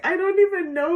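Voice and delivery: high, laughing through the words; half-laughing exasperated reply; laughing helplessly. Retold or imitated. Nurse to old patient, laughing in disbelief.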